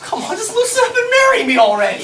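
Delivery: half-laughing demand; laughing exasperated plea. Acted.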